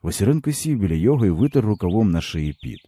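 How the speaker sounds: usual speaking voice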